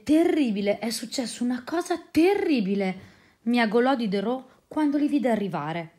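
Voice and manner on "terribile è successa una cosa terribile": distressed cat. Acted. Diderot distraught over ruined atlas.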